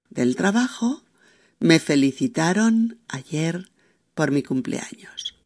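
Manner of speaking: slow dictation, naming each comma; reading the commas aloud. Shown as a demonstration. Teacher dictating the sentence with its commas. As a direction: spell out every comma as you read. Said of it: "la misma frase tal como la habíamos establecido".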